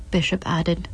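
steady, measured audiobook reading; story narration. A narrator's reading. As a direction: lay out the grim scene evenly for the listener.

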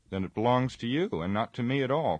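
high, loud astonished outburst; cried in amazement. A narrator's reading. Frodo to Aragorn, amazed the sword is his, crying out high and loud. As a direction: blurt it out, springing up in shock. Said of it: "cried Frodo in amazement".

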